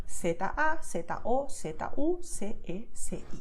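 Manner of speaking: Latin American Spanish, Z and C said as "s"; Latin American accent. Shown as a demonstration. Teacher showing how Latin Americans say it, Latin American s. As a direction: spell it the Latin American way, Z as "seta". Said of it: "in this accent would be".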